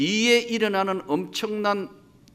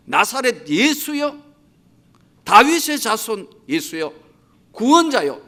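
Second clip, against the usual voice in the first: rising, louder plea called out over a crowd; beggar's shout; 2 semitones higher, 4 dB louder than usual. Acted. Blind beggar shouting to Jesus over the crowd, louder plea. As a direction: cry out desperately for rescue. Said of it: "소경이고 거지가 소리 질러서".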